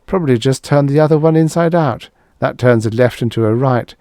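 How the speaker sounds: high, breathless laughing speech; wheezing laugh. A narrator's reading. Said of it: "I wheezed".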